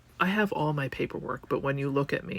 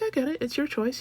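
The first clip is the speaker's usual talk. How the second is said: quoting the doctor; 11 semitones higher than usual. Retold or imitated. Quoting the dermatologist.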